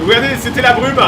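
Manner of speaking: loud and high with wonder; excited. Real, not acted. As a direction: marvel as it breaks through the fog. Rocket clearing the fog live.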